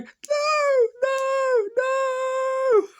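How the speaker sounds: very high, loud campy scream of "no"; hammed-up horror-film shriek of drawn-out noes; mock screaming "no". Actress chained before Krampus, campy over-the-top screaming. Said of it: "she just starts screaming".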